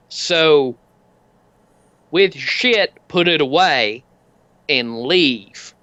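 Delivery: slow, deliberate biker threat; slow biker warning. Acted. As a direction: spell it out like to a dimwit. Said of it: "and he's like".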